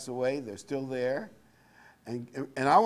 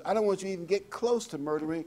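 Christ's warning; 7 semitones higher than usual. Retold or imitated. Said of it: "Christ says".

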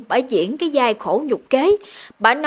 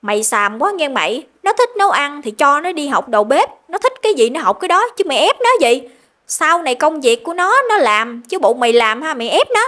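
louder, heated telling-off of her son; grandma scolding; 3 semitones higher, 3 dB louder than usual. Retold or imitated. Grandmother defends grandson against his father, heated scolding. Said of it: "Bà nội mới lên tiếng bênh vực".

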